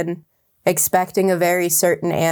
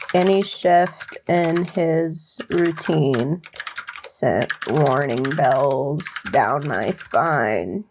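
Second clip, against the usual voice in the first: dramatic reading; 4 semitones lower, much slower than usual. Acted. Hammed-up dramatic book reading.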